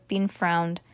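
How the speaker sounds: usual speaking voice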